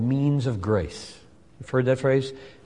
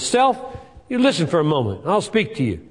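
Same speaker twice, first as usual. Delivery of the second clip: commanding the self; 4 semitones higher than usual. Acted. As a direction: stand up and order your soul to listen. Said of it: "So he stands up and says".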